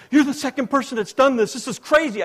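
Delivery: high, loud, incredulous protest; acted astonishment. Preacher imitating the astonished night clerk, incredulous. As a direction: blurt it out in amazement.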